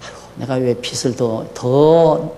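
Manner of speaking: self-pitying sigh about the debt; sighing lament. Retold or imitated. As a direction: sigh over the debt like an old man. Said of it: "나도 사람인지라".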